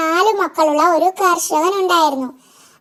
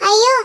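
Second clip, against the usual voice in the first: imp's cry; 5 semitones higher, 5 dB louder than usual. A narrator's reading. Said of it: "അതാരാ കരയുന്നത്?".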